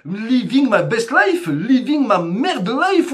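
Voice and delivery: slow, drawn-out mock of a show-off caption; sing-song it like a smug post. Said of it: "ils prennent ... en photo et qui marquent". (moquerie lente d'une légende Instagram)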